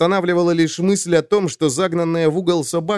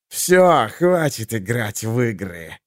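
hissed; 3 semitones lower, slower than usual. A narrator's reading. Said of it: "прошипел он".

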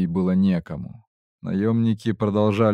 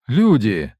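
startled cry; 5 dB louder than usual. Acted. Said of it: "и охнул".

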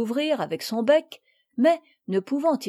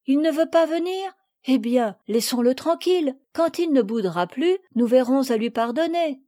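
put-on higher, easy-going girl's voice; calm young girl; 4 semitones higher, 3 dB louder than usual. Camille telling the girls to leave Mimi, calm. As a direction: lightly shrug it off.

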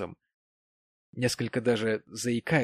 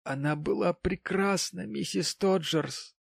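maudlin tipsy gentleman; 8 semitones higher than usual. A narrator's reading. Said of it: "сказал он без всяких предисловий".

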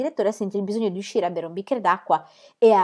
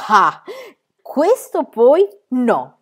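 louder, drawn-out eager protest; exclaiming girl; 6 semitones higher, 7 dB louder, much slower than usual. A narrator's reading. Pippi refuses to let the prize go, exclaiming. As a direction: jump in boldly. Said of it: "esclamò Pippi".

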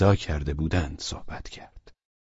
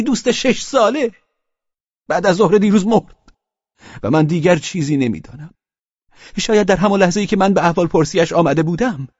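higher, louder, bitter grief and spite; bitter, worked-up Pavel; 10 semitones higher, 4 dB louder than usual. Acted. Pavel Pavlovich telling Velchaninov of Bagautov's death, bitter and agitated. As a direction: rail about the dead friend.

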